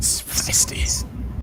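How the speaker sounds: slow, unvoiced whisper.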